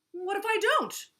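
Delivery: loud, high defiant shout. A narrator's reading. Vulture defies Turtle, shouting. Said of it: "shouted Vulture".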